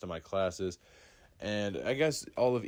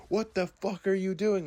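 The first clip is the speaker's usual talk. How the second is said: imitated teacher's outburst, high and loud; raised, high-pitched mock scolding; retold yell; 12 semitones higher, 7 dB louder than usual. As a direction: yell it as the shocked teacher in a retelling. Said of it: "And she yells at him".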